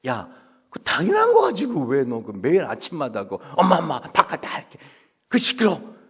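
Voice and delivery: exasperated scolding; annoyed mom. Acted. A mom fed up with her child's daily shouting. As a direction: brush the child off.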